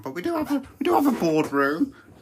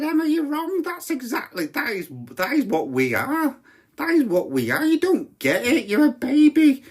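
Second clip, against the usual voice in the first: rising, high-pitched mock indignation; indignant retort; 8 semitones higher, 4 dB louder than usual. Brother insisting to Emma she's wrong, indignant childish retort. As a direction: argue back childishly, peaking loud and high. Retold argument with his sister.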